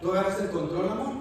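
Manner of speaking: asking spouse. Retold or imitated. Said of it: "spouse asking about remote".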